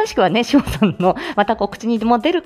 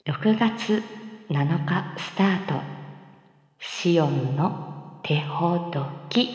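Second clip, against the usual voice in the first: soft, slow, sultry announcement; sultry title read; 2 semitones lower, 8 dB quieter, much slower than usual. Acted. Announcing the collab show title to viewers in a soft, slow, sultry voice. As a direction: breathe the title out slowly and seductively. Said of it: "セクシーのワオを出そうと思った".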